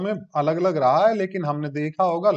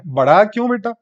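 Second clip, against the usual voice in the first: mock-puzzled question; 6 semitones higher, 8 dB louder than usual. Teacher poses a puzzle question.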